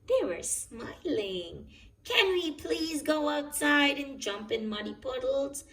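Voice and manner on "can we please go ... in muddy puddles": higher, eager pleading; bouncing with excitement to go outside; excited Peppa. A narrator's reading. Peppa begs her parents at dawn, higher eager plea. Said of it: "asked Peppa excitedly".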